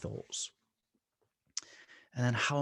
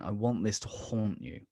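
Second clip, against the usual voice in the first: put-on Wiltshire accent. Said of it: "Let me give my most Wiltshire accent".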